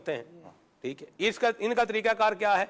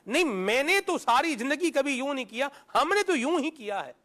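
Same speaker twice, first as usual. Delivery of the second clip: stubborn insistence; 6 semitones higher than usual. Retold or imitated. Stubborn elder resisting change.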